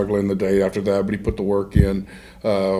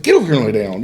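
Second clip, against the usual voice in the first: mild mock yell at a dog; imitating an annoyed dog owner; retold yelling at dog; much faster than usual. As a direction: order the dog over, half-laughing. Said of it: "I'm yelling at my dog".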